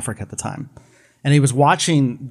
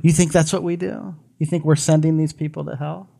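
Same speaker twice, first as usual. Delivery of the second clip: voice of God; 4 semitones higher than usual. Retold or imitated. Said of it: "He said".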